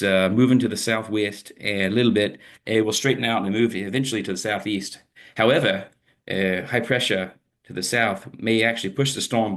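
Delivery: lightly put-on Aussie accent; Australian accent. Forecaster tracking a cyclone off Queensland, amateur Australian accent. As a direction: imitate an Australian weather presenter, not too convincingly. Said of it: "enough of the Australian accent".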